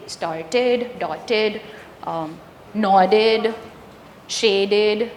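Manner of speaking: Started, dotted, nodded, shaded each ending in a clear "id". Shown as a demonstration. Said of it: "the E D is always id".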